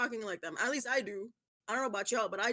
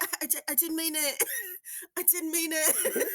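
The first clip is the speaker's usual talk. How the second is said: stammering, laughing mock British apology; playful British excuse, breaking into giggles; put-on British accent; 5 semitones higher than usual. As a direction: protest in a fake British accent, higher. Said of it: "come back and have an accent".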